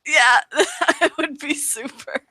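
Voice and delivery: laughing through pain. Real, not acted. Wounded, laughing, arrow in shoulder.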